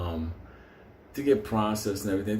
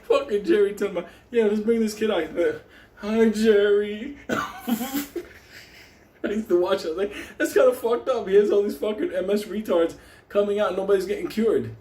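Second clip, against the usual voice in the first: higher, louder ranting; heated rant; 9 semitones higher, 4 dB louder than usual. Real, not acted. Comic ranting about the telethon to the crowd, higher and louder. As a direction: pile it on, getting worked up.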